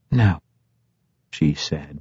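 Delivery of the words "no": understated, calm no; calm refusal. A narrator's reading. Dahlia answering a blunt question about killing, calmly. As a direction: refuse without any heat. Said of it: "but calmly".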